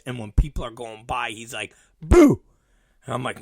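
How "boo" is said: loud, high pop-out "boo"; imitated child startling shoppers; kid's playful boo. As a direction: jump out like a hiding child. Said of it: "Major is hiding in between".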